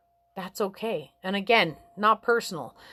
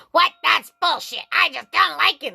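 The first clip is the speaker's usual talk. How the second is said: scoffing customer; 7 semitones higher, 5 dB louder than usual. Retold or imitated. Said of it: "I'm like".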